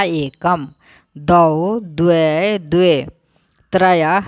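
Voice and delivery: each Sanskrit number word said alone with pauses; teacher drilling Sanskrit numerals aloud; pronunciation drill. Shown as a demonstration. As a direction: model every number word crisply for repetition. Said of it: "इसको ऐसे उच्चारण करेंगे".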